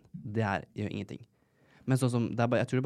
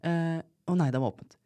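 higher, louder flustered phone voice; imitating flustered friend; 8 semitones higher, 4 dB louder than usual. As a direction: play the friend scrambling on the phone, pitch up. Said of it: "ringer meg sånn". (mild etterligning av stresset venninne i telefonen)

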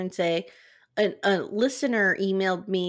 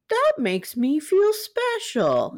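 Teddy Ruxpin voice; 6 semitones higher, much slower than usual. Retold or imitated. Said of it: "And he would say".

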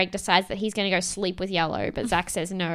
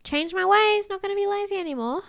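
mock promise; 9 semitones higher than usual. Recapping a contestant's promise to Olivia, high mock-earnest. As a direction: put on a high voice for a half-hearted promise. Quoting Emily's promise to reform.

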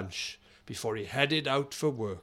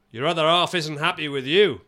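put-on a touch of Australian accent on the boss's line; lightly Australian, half-hearted; slight Australian accent; 5 dB louder than usual. Boss telling the wife at the playground, slight Australian accent. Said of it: "I did a slightly Australian accent".

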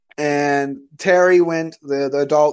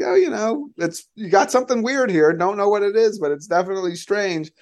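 much higher, light mock officer voice; puzzled Navy officer; 6 semitones higher than usual. Navy man returning the Sphere to her, mock puzzled. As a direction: play the baffled serviceman handing it over.

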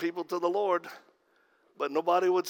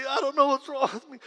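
rushed desperate repeat; 9 semitones higher, faster than usual. Retold or imitated. Addict breaking down to pastor.

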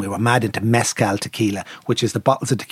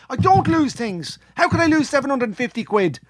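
indignant; 13 semitones higher than usual. Retold or imitated. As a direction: hammer each word of disbelief. Insisting angrily to friend.

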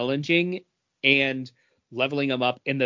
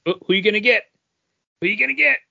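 excited; 8 semitones higher, 5 dB louder, much faster than usual. Real, not acted. Excited reaction to Chris's pull.

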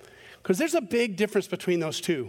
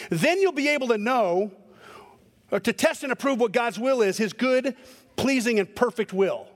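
duty-driven reading; 3 semitones higher than usual. Shown as a demonstration. Preacher reads the verse the way he naturally hears it, as a stern demand. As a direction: read it like marching orders. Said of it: "So here's my natural way of reading this".

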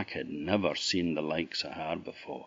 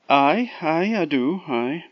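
Scots Jack; 10 semitones higher, 8 dB louder than usual. A narrator's reading.

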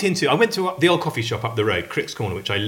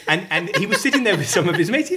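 ordinary talk

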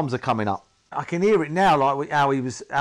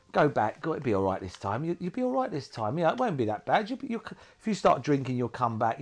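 mild, gently coaxing temptation voice; coaxing nice addiction; 4 dB quieter than usual. Retold or imitated. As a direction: lightly voice the addiction sweet-talking you back. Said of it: "is the nice addiction".

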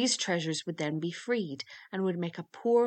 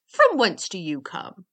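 loud interrogation; blustering storybook demand; demanding waggoner; 8 dB louder than usual. A narrator's reading. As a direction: question him forcefully, hitting the first words. Waggoner questions the youth.

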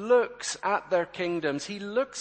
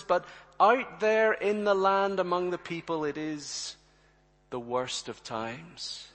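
prophet's rebuke. Acted. Amos confronting the kings, rising rebuke then hushed.

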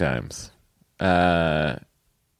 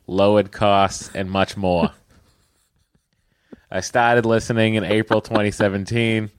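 put-on Boston accent. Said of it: "read it with a Boston accent".

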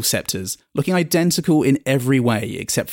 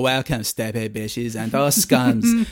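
slow, pompous regal welcome; grand royal welcome; 2 semitones higher, slower than usual. Acted. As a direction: announce it like haughty royalty. Royal greets visitors.

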